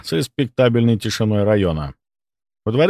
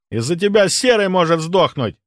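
angry threat; 8 semitones higher than usual. Acted. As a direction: shout it at him. Gunman threatening.

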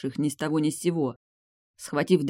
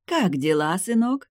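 pleased, smiling; 4 semitones higher, 3 dB louder than usual. A narrator's reading. Mother greets her visiting son, pleased. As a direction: motherly question lifting high at the end. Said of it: "довольно улыбалась матушка".

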